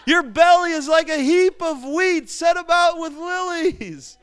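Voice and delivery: high, loud, slow street-corner holler; mock preacher shout. Street preacher shouting Song of Songs at passers-by, mock preaching. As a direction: belt out love poetry like a street preacher. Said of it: "like, shout Song of Song".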